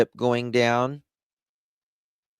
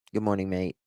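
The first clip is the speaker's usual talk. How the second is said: mock Australian; 5 dB quieter, faster than usual. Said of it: "How do you say good morning in Australia".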